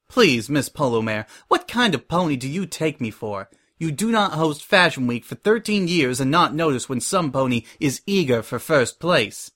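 mildly scornful, controlled rebuke; scornful snort. Acted. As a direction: put down someone who takes you for a fool. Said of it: "Prim snorted".

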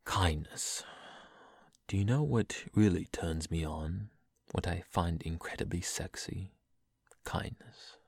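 poem reading. Acted. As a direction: read it like a tender poem. Reads a poem aloud.

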